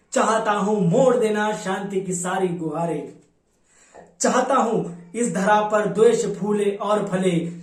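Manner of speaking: declamatory Hindi verse in Kalyug's words; poem recitation. Acted. Kalyug declares his intentions before Brahma, declamatory poem recitation. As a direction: declaim the verse in measured, rhythmic lines.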